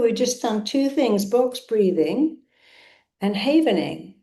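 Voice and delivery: ordinary talk, nothing marked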